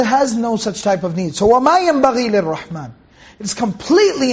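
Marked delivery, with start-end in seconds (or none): 1.5-2.9 fast, flowing chanted recitation of the verse; Quran recitation. Acted. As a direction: recite it with tajweed.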